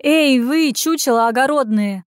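lightly voiced scolding old village woman; a hint of a cranky granny yelling at the guards. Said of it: "включила она бабу Аню".

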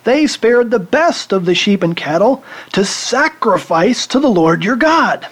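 high, whiny, blame-shifting king; Saul's excuse. Acted. Preacher voicing Saul blaming his soldiers, high and whiny. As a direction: plead like a king passing the blame. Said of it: "And here's Saul".

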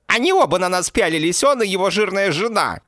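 put-on high, loud, shrill girlfriend cry; Mandy's shrill shout. A narrator's reading. Mandy shouts at Frank, egging him on, high and loud. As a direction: yell it up high and sharp like a trashy girlfriend.

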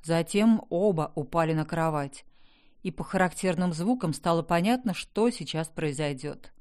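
usual speaking voice

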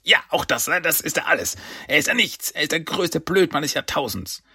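high villain rant; angry tirade. Acted. Krang curses his underling, angry and high-pitched. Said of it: "Dann Cranks wütende Stimme".

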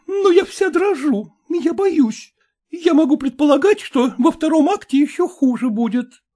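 she frets about the second act; trembling fear. A narrator's reading. Frightened actress voiced high. (высоко, испуганно)

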